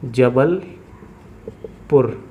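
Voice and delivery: जबलपुर split in two with a long pause before पुर; slow dictation. Real, not acted. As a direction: say जबलपुर very slowly, as if writing each part. Spelling out city while writing. (जबलपुर को रुक-रुककर, बहुत धीरे बोलना)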